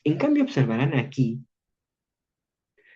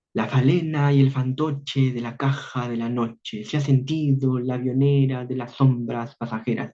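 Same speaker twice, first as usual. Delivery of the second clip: verse read steadily, line by line, stressing the beat; poem reading. Acted. Teacher reading Eguren's verses to the class, rhythmic. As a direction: let the eight-syllable rhythm carry each line.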